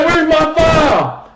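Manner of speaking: high, drawn-out mock whine for a call; complaining player. Player appealing to the ref for a foul, mock complaint. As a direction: lightly mimic a player pleading with the ref.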